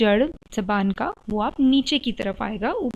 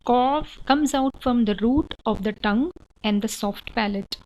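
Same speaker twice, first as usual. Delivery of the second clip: reading the rule out slowly, word by word; slow dictation; much slower than usual. Shown as a demonstration. Teacher reading the rule aloud, slow and careful. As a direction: spell the rule out slowly for students.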